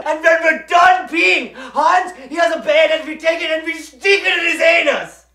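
put-on excited German-accented shouting; hammed-up triumphant rant; manic gloating. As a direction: rave gleefully, carried away by the tale. Pilot's boast reaches its peak.

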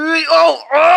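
sudden high drawn-out yelp; real shock at a game scare; startled cry. Real, not acted. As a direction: caught off guard, cry out.

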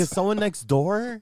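mock scared whisper. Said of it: "I'm like".

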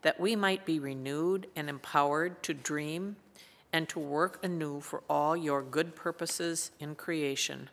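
unhurried, reverent prayer voice. Acted. Opening prayer before scripture.

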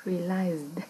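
"Realized" ending in a voiced d; final d released. Shown as a demonstration. Teacher showing the ED ending, "Realized" with a clear final d. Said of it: "E D chúng ta sẽ bật âm d".

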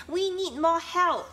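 high, loud call for reinforcements; shout for help. A narrator's reading. Pig shouting for help while the swing hangs dangerously, high and loud. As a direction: yell it over to the others. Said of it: "So the Pig shouted".

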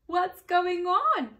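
high, loud, slow pig question; curious pig. A narrator's reading. Pig asking what the fuss is, high and slow. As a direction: ask it slowly and loudly. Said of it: "asked the pig".

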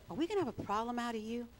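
quick, understated interrogator's question; interrogating. Retold or imitated. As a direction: rattle off the challenge as a mild warning. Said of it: "It was more like an interrogation".

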